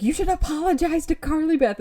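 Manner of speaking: high-pitched mock demand; retold yell. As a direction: imitate a scolding yell without much volume. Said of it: "she yells at them in the third person".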